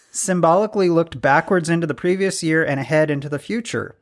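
ordinary talk, nothing marked

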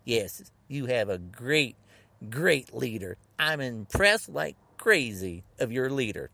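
slow, emphatic fake admiration; sarcastic praise. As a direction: lay on the praise with heavy sarcasm. Sarcastic praise of their leader.

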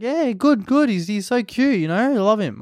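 lightly hammed-up high gushing; imitating your own high-pitched doting chat; acted gushing. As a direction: gush over a beloved pet. Acting out gushing reply about dog.

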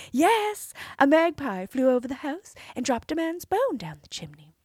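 high, sweet princess voice; cartoon princess. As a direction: play the innocent princess. Princess answering the giant.

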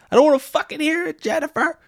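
high, fast angry husband; angry snap. Retold or imitated. Husband snaps at wife.

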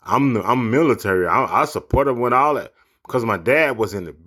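lightly voiced mocking quote of the senator; a hint of a smug politician, parroting his excuse; mild mock impression of the senator's words; mocking Tuberville. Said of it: "Talking about".

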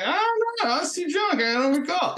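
mock playing dumb. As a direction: play innocent in a squeaky, exaggerated tone. Mock answers to NCIS interrogators.

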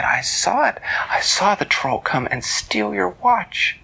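put-on a young girl hearing sad news; Elise voice.

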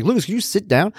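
dad asking his son to sit, mock scolding. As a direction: pretend to tell him off. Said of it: "I wanna be like".

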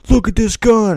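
high, loud mock-excited exclamation; excited show-off. Guy in a gun safety commercial to friends, mock-excited shout. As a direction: show it off like a kid in a cheesy PSA.

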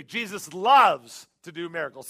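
loud congregational call; leading the crowd. Shown as a demonstration. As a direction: say it big so they join in. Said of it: "say it with me".

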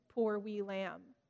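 put-on a gentle Scottish lilt over a sick child; tender Scottish accent. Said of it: "still in a terrible Scottish accent, whispered over them".

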